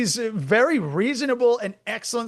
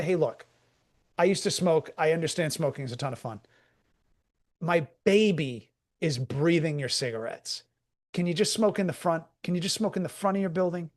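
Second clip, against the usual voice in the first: pleading heart to heart; 3 semitones lower, 4 dB quieter than usual. Retold or imitated. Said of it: "reach her on an emotional level".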